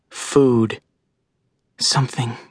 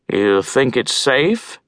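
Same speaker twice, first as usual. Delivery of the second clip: gruff crow voice; slower than usual. Acted. Old crow asks cautiously.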